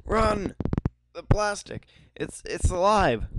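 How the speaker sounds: panicked high voice. Acted. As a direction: shriek a frantic warning. Game character raising alarm.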